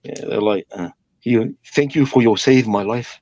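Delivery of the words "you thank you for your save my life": put-on Samoan accent. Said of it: "the English is, like, broken".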